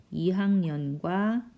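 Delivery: slow, drawn-out words while writing; unhurried dictation; slow writing-along pace. Real, not acted. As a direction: stretch the phrase to match your pen. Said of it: "쓰려니까 시간이 많이 걸리네요".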